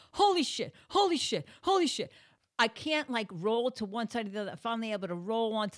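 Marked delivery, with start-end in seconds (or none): 0.1-2.1 high, loud repeated exclamations; pained alarm. Retold or imitated. Woman stuck on the floor with back out, alarmed yelps. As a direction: cry out each one in re-enacted agony. Re-enacting agony alone on the floor.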